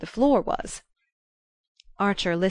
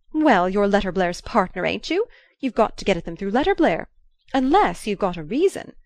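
insisting; 4 dB louder than usual. Acted. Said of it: "she insisted".

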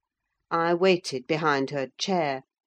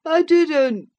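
much higher, louder tearful denial; sobbing boy; 12 semitones higher, 9 dB louder than usual. Acted. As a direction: deny it through tears. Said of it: "sobbed the youth".

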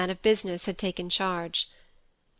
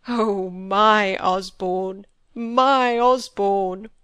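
slow, louder cry of grief; anguished outburst; 5 dB louder, much slower than usual. A narrator's reading. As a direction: break out in grief, drawn out. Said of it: "he burst out".

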